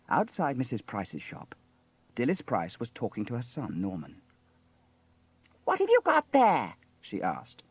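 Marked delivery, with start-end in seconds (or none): 5.6-6.8 high, loud, prying mother; nosy mother. A narrator's reading. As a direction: demand to know, full of curiosity. Mother questions son in story.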